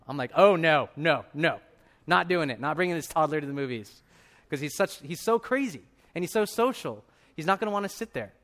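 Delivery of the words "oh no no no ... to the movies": acted-out protest, loud at the start; firm refusal. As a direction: put your foot down, retelling it. Acts out refusing wife's idea.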